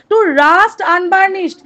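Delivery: each word drawn out; slow poem recitation. Shown as a demonstration. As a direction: read the verse very slowly. Repeats poem line.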